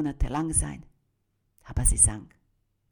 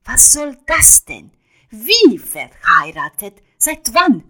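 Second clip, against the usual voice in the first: shocked disbelief; 5 semitones higher, 8 dB louder than usual. Acted. Shocked at news she's married.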